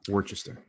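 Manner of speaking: Worcester in three syllables, "WOR-chess-ter"; spelled-out Worcester. Shown as a demonstration. Defending own reading, Worcester as WOR-chess-ter. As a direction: sound out every part of Worcester. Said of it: "That's how I would say it".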